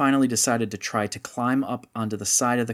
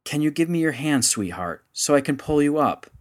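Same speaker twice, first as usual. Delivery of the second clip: more urgent; 5 semitones higher, 3 dB louder than usual. Acted. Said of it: "And then more urgently".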